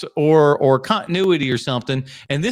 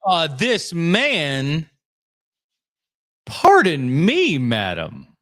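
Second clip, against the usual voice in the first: slow, offended drawl; indignant, taking offense slowly; mock offended; much slower than usual. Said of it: "Put some respect on the Paul Dano".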